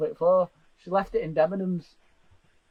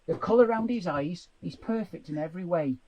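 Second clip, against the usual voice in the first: dramatic audition reading; 2 semitones lower, slower than usual. Pretend. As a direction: read it like a soap audition. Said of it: "That was my audition for the Archers".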